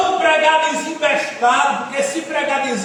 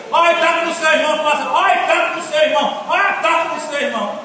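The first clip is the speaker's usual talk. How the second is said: imitating repetitive preacher; 2 semitones higher than usual. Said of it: "tem gente que é, co-, é corriqueiro".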